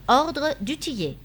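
dictating an entry. A narrator's reading. César dictates an entry to clerk.

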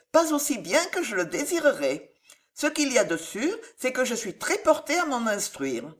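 put-on earnest young heroine.

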